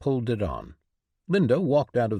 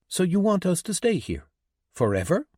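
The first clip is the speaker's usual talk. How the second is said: angry; 7 semitones higher, faster than usual. A narrator's reading. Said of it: "she was angry".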